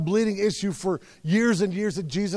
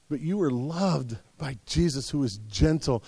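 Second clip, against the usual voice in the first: soft reassurance; 4 semitones lower, 5 dB quieter than usual. Real, not acted. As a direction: drop low and quiet, tender. Soft reassurance after loud appeal.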